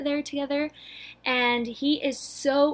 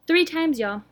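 emphatic; 6 semitones higher, 5 dB louder than usual. Real, not acted. Stressing how often she watched.

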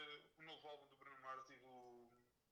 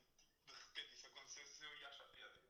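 ordinary talk, nothing marked

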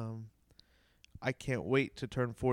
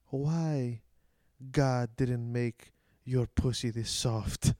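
put-on slow, heavy broken English of an old Greek immigrant, louder; old Greek man's broken English; 5 dB louder, much slower than usual. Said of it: "broken English".

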